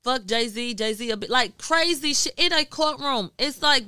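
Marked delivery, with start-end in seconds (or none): 0.0-1.3 a higher, lightly raised mock yell from the gallery; retold crowd screaming. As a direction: echo the courtroom crowd shouting, half-hearted. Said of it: "You got people screaming".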